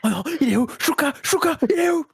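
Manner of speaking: appel aigu et paniqué; panique amusée. Real, not acted. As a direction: cherche son oiseau en riant. Cherche son oiseau disparu. (panique amusée)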